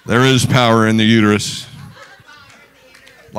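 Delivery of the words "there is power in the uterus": laughing tease. Real, not acted. Repeating the funny slip.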